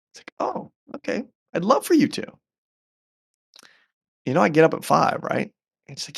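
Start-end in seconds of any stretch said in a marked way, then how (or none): 0.4-2.2 high, breathy eager yes; eager high reply. Retold or imitated. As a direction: gush a bright okay. His own eager reply acted.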